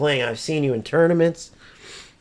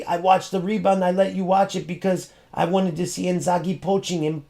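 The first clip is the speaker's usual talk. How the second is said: mock excuse; 3 semitones higher than usual. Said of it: "had the balls to say".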